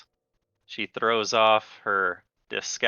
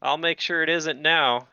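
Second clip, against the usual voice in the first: shaken then threatening king; 7 semitones higher than usual. Acted.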